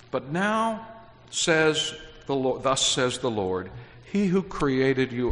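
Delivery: measured, solemn reading of Isaiah, stress on each you; scripture reading. Acted. Pastor reads Isaiah 43 aloud.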